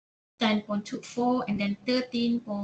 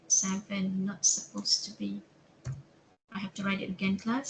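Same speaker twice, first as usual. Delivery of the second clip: with hiccups; 3 semitones lower than usual. Real, not acted. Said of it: "Sorry about the hiccups".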